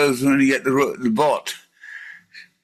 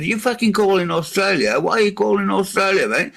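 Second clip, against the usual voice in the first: higher, hammed-up indignant Australian; mock Aussie bloke; 8 semitones higher than usual. Man mocking a caller, higher hammed-up Australian. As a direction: overdo the Australian outrage. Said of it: "I said".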